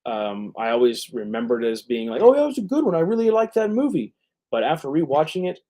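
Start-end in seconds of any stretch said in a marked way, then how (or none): 2.2-4.1 mock enthusiasm. Mocking his old enthusiastic opinion.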